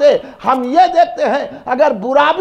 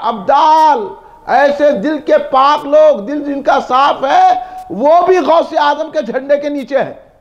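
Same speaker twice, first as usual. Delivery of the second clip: preaching; slower than usual. Real, not acted. Preaches the saints' rank.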